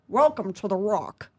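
slow, lightly done Scottish movie star; measured mock Scottish delivery; amateur Scottish tough-guy impression; Sean Connery. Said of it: "I did Sean Connery".

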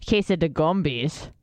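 put-on light slow Jamaican accent. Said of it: "with a Jamaican accent".

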